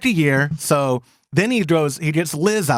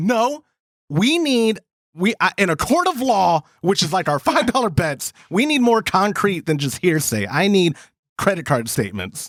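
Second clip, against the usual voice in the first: ordinary talk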